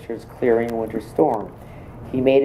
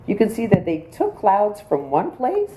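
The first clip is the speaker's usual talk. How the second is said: retold friend's advice in a higher voice; imitating Jean; 9 semitones higher than usual. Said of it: "Jean looked at me and said".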